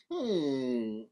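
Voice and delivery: low, soft hmm; pondering hum. Acted. Hero worried about a rematch, doubtful hum.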